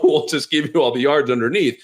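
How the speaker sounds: crappy presidential impression breaking up with a laugh; badly faked politician voice, amused; Donald Trump. Coach promising to give up yards, as a crappy Trump impression. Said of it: "crappy Trump impression right now".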